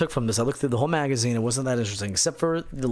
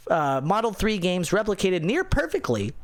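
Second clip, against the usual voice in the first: nerd voice; 2 semitones higher than usual. Acted. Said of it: "I'm gonna do this in my nerd voice".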